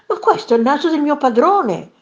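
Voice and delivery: high-pitched shocked cry; horrified exclamation. A narrator's reading. Maid spots master's nose among fish, horrified exclamation. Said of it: "esclamò inorridita".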